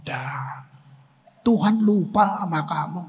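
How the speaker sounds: low hushed taunt, almost under the breath; tempter's whisper. Retold or imitated. The enemy telling the sinner God forgot him, low and hushed. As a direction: murmur it like a voice of despair. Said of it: "lu bilang".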